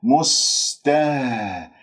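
مسته slowly, with an audible breathed final h; clear still ha. Shown as a demonstration. Teacher demonstrates the vowelless ha: drawn-out breathy ه in مسته. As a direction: let breath flow on the ه closing مسته. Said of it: "الهاء الساكنة تتجلى فيها الصفات".

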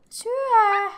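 high, loud coaxing call to the pet. Real, not acted. Player urging her Sims pet to eat, high coaxing call. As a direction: chirp it at the pet like a puppy.

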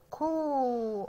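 long, held كو with rounded lips; rounded damma sound. Shown as a demonstration. Teacher showing a child the damma, drawn-out rounded كو. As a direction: stretch كو into one long "koo". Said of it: "اه ضمينا بقنا كده".

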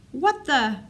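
a stunned, broken-off "what the"; startled. Acted. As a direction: caught off guard mid-sentence, pitch jumping up. Brother bursts in, finds Kyle.

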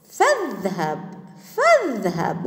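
careful model of فاذهب, hamza kept; hamza pronounced. Shown as a demonstration. Teacher showing pupils the cutting hamza, hamza pronounced. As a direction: sound a glottal stop after fa in فاذهب. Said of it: "همزة ولفظت".

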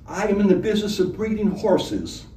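tipsy, slurring the words; slurred drunk. A narrator's reading. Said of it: "slurred the honored guest".

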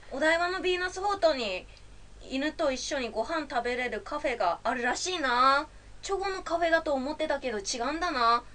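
Tsugaru dialect. Pretend. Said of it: "津軽弁".

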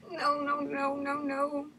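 high, whimpering string of refusals; scared. Real, not acted. Player about to cover their eyes, scared. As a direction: whimper through nervous panic. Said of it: "'cause I'm scared".

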